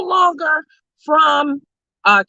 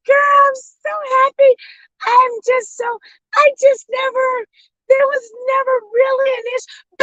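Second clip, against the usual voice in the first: high, squeaky mock crying voice, much higher than her own; mock tearful gush; 11 semitones higher than usual. Mocking the rival streamer's fake tearful innocence, high mock cry. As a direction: whine it out like a fake teary sweetheart. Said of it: "She was like".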